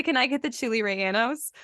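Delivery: chili rellenos as "chilly ray-AN-ohs", half English, half Spanish; in-between pronunciation. Shown as a demonstration. Ordering politely in the middle ground, in-between pronunciation. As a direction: soften the L's of "rellenos" to a y, keep "chili" English. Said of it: "a little more in the middle".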